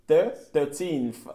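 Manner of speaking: "Thir-, thirteenth" very slow, first syllable split off; slow teacher model of thirteenth; slow syllable drill. Shown as a demonstration. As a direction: break the word apart slowly for learners. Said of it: "teacher models thirteenth".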